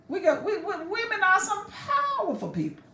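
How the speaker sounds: laughing through the boast, high. Real, not acted. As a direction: says it while laughing. Laughing boast about women.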